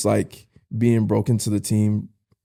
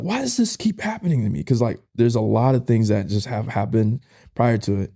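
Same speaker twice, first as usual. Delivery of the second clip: much higher, strained anguished outburst; mad and distraught; 8 semitones higher than usual. Retold or imitated. Son pouring out his anger to dad, anguished. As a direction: cry out at God in grief. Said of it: "I am so mad".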